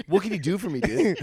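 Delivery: lightly mocked pushy customer, laughing; a hint of a cocky shopper haggling; laughing through a mock customer line. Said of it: "they'd be like".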